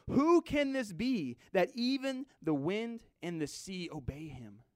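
high, drawn-out question that falls away; fearful awe. Acted. Disciples asking one another about Jesus, awed fearful question. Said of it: "they feared exceedingly".

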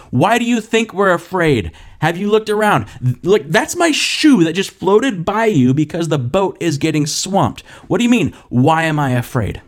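mildly hammed-up exasperated yell; shouting over the storm. Disciples arguing with Jesus as the boat swamps, half-shouted disbelief. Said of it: "they're shouting over the storm".

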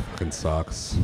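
weary sigh, slow and breathy. Pretend. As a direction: let it out with a heavy sigh. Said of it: "my impression of a bad day".

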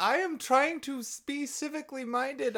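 very high, squeaky pleading; mock exasperated protest. The speaker protesting mid-debate, high-pitched mock exasperation. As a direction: push the voice way up in mock distress.

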